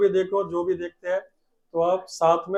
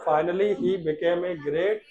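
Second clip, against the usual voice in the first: slow, drawn-out words; slow dictation; slower than usual. Shown as a demonstration. Teacher dictating slowly to the class. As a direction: stretch each word for the class. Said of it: "आगे सुनो बेटा".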